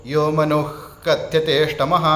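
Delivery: मनुः कथ्यतेष्टमः with the visarga sounded as a kh before क. Shown as a demonstration. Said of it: "क आने के कारण".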